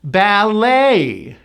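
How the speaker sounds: Ballet as bal-LAY, silent T; Ballet, long AY falling; second-syllable stress. Shown as a demonstration. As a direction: hit and stretch the end of Ballet. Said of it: "stress is on the second syllable".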